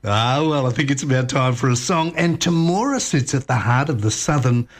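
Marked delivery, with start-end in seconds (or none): 2.1-4.7 scripted travel-show narration; radio feature read. Real, not acted. Host introducing a song about grain growers, scripted radio read.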